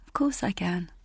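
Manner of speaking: soft, comforting whisper; tender whisper. Acted. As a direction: hush her gently. Comforting sobbing daughter.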